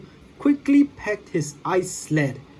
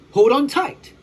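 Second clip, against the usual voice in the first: urgent call; 8 semitones higher, 6 dB louder than usual. Acted. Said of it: "said the Flash".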